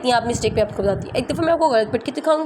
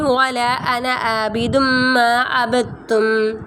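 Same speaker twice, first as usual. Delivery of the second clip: Quran recitation. Shown as a demonstration. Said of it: "اب last line دیکھیں".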